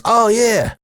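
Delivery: teasing, pitched well up; Earl joking. Retold or imitated. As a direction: imitate a boss amused at his own slip. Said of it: "And he goes".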